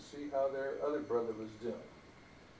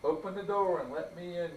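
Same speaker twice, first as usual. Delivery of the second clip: wolf crying out; 3 semitones higher than usual. Acted. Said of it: "cried the wolf".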